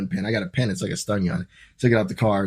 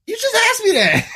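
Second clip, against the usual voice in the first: much higher, laughing disbelief; laughing retort; 3 dB louder than usual. Retold or imitated. Traveler mocks officer's repeated question, laughing and high. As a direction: squeak it out between laughs.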